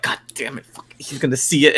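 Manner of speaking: muttered dismay. Retold or imitated. Retold private panic after killing.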